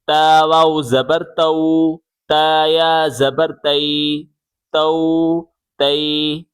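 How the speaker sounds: slow "تو تی" ending in clear oo and ee; maroof, gentle. Shown as a demonstration. Teacher repeating for pupils to listen, gentle maroof reading. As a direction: say "ta-oo", "ta-ee" for "تو تی", smooth and unjerked. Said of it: "معروف پڑھنا ہے نرمی سے".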